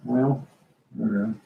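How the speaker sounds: talking around a pencil in mouth. Real, not acted. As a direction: speak with a pencil between teeth. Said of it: "I've got my pencil in my mouth".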